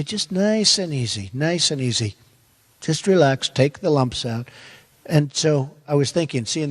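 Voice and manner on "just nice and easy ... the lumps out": lightly voiced, soothing father; an easygoing father, soothing; calm and easy. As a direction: talk him down gently, nice and easy. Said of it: "He'd say".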